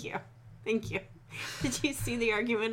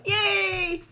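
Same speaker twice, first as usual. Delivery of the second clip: excited cheer; 12 semitones higher, 3 dB louder than usual. Real, not acted. Cheers at the story title.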